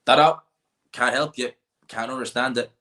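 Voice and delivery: mock exasperation at not understanding; baffled reaction. Listener giving up on a Donegal speaker, mock baffled. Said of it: "I'm just like".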